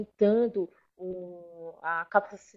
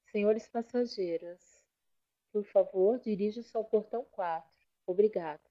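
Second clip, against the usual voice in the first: airport PA announcer voice; airport announcement; 5 dB quieter than usual. Retold or imitated. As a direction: read it like a gate call. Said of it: "aquelas moças que trabalham no aeroporto". (voz de locutora de aeroporto)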